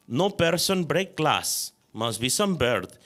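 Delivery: put-on light, calm Croatian-accented English; unbothered uncle with a hint of a Croatian accent. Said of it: "undisturbed in his awkward accent".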